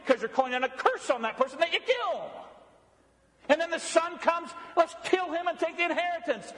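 impassioned preaching. Acted. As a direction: build the outrage as a preacher would. Preaching the escalating crimes.

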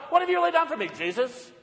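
challenging like Pilate. Retold or imitated. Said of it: "I'm like Pilate".

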